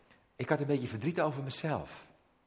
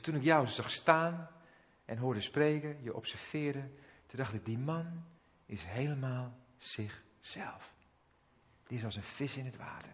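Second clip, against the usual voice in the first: softer, slow, moved quoting; tearful man; 4 dB quieter than usual. Retold or imitated. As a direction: quietly relay a crying man's words. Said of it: "En toen begon hij te huilen".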